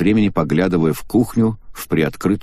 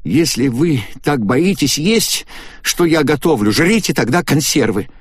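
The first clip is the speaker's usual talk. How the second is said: higher, slowed, indignant; angry outburst; 8 semitones higher than usual. A narrator's reading. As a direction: fling it at them in anger. Агата в ярости на кухне. (Агата злится на подозревающих её)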